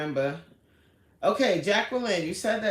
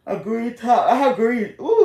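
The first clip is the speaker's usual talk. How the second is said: excited; 7 semitones higher, 11 dB louder than usual. Real, not acted. Excited listing green clothes.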